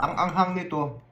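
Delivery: talking through spicy burn; words pushed out past a burning mouth; mouth burning from spicy food. Real, not acted.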